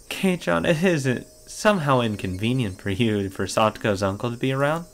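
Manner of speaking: put-on sly, unsettling girl voice; creepy voice. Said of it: "strange and creepy voices".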